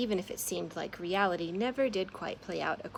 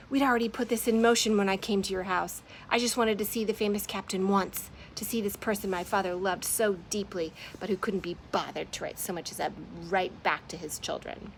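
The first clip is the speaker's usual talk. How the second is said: angry rant; 4 dB louder than usual. Acted. Moth's angry rant continues.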